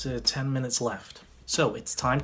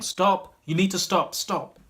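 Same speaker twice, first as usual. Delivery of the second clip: raised, insistent order to stop; mock shout, higher and a bit louder; imitated shouting; 5 semitones higher, 3 dB louder, slower than usual. Restaurant manager halting the magic show, imitated shouting. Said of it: "the shouting was coming from him".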